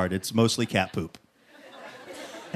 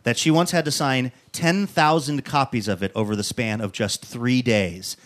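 measured announcer read building to the guest's name; presenter's stage intro; show host introduction. Acted. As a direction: introduce the guest to a live audience, lifting at the end.

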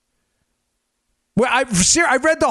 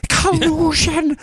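high, slow, stretched-out cry; mock alarm; 8 semitones higher, slower than usual. Mocking the accusers' favourite charge, mock alarm. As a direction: draw it out as a fake scandal.

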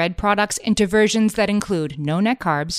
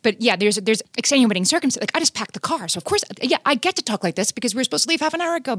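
defensive excuses; 5 semitones higher, faster than usual. Retold or imitated. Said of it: "it's like".

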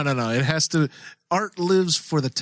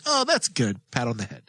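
condescending praise; 3 semitones lower, 3 dB quieter than usual. Retold or imitated. People complimenting someone's art, mock condescending. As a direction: praise them like a small child, imitating. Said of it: "people just are being condescending".

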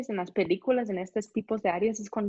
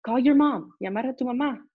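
eager agreement; 4 semitones higher than usual. Retold or imitated. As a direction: gladly urge her to call. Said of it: "Y ellos".

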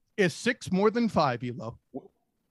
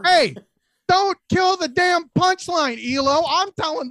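playfully scolding, higher and louder; mock annoyed; 7 semitones higher, 5 dB louder than usual. Annoyed at being interrupted.

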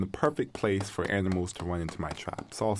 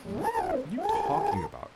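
alarmed. Acted. Creatures talking strangely.

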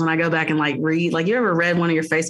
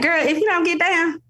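mock mom scolding; 9 semitones higher than usual. Scolding daughter in retold scene.

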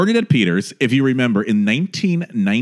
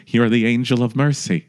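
Nathan Lane impression. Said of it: "That's Paul Lynde".

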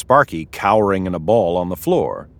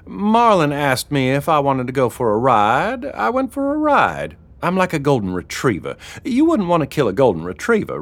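higher-pitched voice of a scared innocent man; pleading Sparky; 5 semitones higher than usual. Acted. Sparky pleads for his life.

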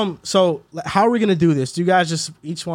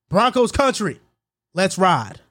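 country voice; slower than usual. Shown as a demonstration. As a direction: pitch up the team name in a country accent. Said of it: "I'm gonna do a country voice".

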